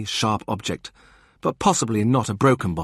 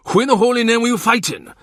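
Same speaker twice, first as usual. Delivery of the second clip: high, loud disbelieving cry; incredulous outburst; 7 dB louder than usual. Acted. Morgan demands who Thomas fought, loud and high. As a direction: blurt it out in shock.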